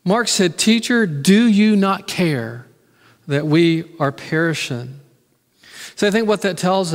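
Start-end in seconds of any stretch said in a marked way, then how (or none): 0.6-5.0 slow, hurt reproach; a little emotion. Retold or imitated. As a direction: ask it as if wounded he doesn't care. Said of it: "Mark put a little emotion with it".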